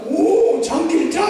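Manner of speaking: knowing scoff. Retold or imitated. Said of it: "무슨 말을 하는지".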